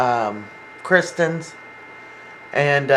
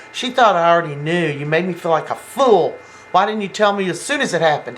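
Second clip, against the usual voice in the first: mock-indignant, quick and rising in pitch; retold indignant accusation; 3 semitones higher than usual. Girlfriend confronting boyfriend who kept the news from her, indignant. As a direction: retell an upset reproach, rushing toward the end.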